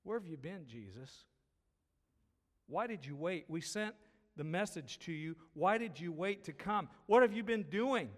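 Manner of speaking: voicing the grieving sisters' rising complaint; sisters questioning Jesus. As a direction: press him harder with each question. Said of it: "some questioning going on".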